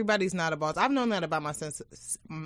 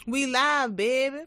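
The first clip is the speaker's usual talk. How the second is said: loud, high hype shout; hyped; 7 semitones higher, 5 dB louder, slower than usual. Real, not acted. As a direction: pump up the crowd. Hyped opening of show.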